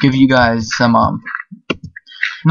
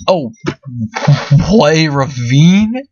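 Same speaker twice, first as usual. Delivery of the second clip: surprised; slower than usual. Real, not acted. Finds a ravine.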